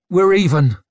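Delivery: loud, high, forced out; through gritted teeth. A narrator's reading. Rika furious at Brock's sneer, forced through gritted teeth. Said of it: "she forced through gritted teeth".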